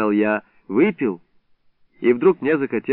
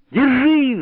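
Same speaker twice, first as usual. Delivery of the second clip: high yelped Держи!; sudden high shriek; shrill yelp; 12 semitones higher than usual. A narrator's reading. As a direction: yelp it like you've been scalded. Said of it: "взвизгнул я".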